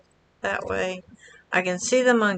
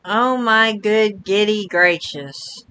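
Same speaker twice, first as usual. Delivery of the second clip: slow tongue twister; slower than usual. Shown as a demonstration. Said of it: "Say that about ten times fast".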